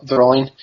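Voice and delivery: Drolin, R lightly rolled, long EE ending; native pronunciation. Shown as a demonstration. Guest repeating the name for host, rolled-R Drolin. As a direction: roll into Drolin and finish on "-leen". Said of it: "You have to kinda roll the R a bit".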